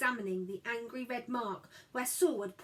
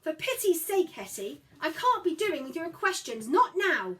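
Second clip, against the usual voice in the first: gasping; 7 semitones higher, 8 dB louder than usual. Acted. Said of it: "Mother gasped".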